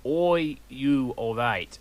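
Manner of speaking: worried. A narrator's reading. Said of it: "in a worried voice".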